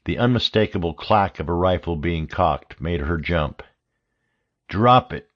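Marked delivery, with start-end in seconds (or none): 4.7-5.3 a hard, menacing command; guard stopping an intruder, menacing. Acted. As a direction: threaten her in the dark. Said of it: "a menacing voice snapped".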